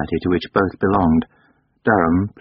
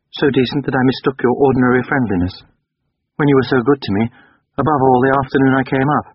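higher, formal and sincere; Durham, stiff apology; 3 semitones higher than usual. Acted. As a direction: apologise with strained dignity.

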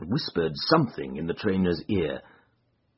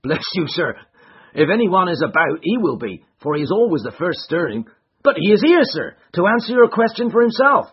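raised, higher rough servant voice; gruff stable lad; 12 semitones higher, 10 dB louder than usual. Acted. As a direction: bark like a wary stable hand.

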